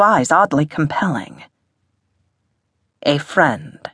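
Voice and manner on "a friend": smooth, posh English gentleman; posh English accent. A narrator's reading. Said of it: "in a posh English accent".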